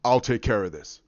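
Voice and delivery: low, confident hero voice; Thor. Retold or imitated. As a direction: say it low, taking charge. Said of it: "Thor goes".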